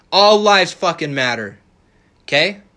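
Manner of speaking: all lives fucking matter, shouted slowly; furious shout. Real, not acted. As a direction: yell it out, dead serious. Heated rant, slammed slogan.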